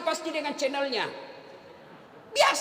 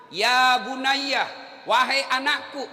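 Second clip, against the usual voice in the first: solemn recitation; slower than usual. Acted. Reciting Surah Luqman verse.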